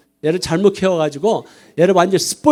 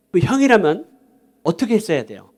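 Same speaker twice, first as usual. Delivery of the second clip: usual speaking voice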